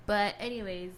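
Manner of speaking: talking while chewing banana; mouth full. Real, not acted. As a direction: speak through a mouthful. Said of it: "hear me munching".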